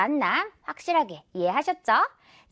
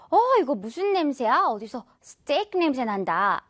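surprised. Acted. Acting out smelling steak somewhere.

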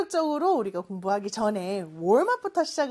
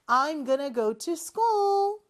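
slow repeat-after-me; 3 semitones higher, much slower than usual. Shown as a demonstration. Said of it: "큰 소리로 해볼까요".

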